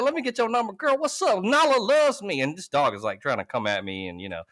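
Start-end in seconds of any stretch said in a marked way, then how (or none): 0.0-2.4 mock eager ask. Asking girl for number.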